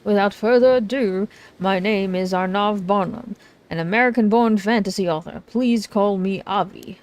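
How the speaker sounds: hammed-up showman introducing himself; dramatic self-introduction. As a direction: present yourself with grand flair. Voices dramatic author Arnav.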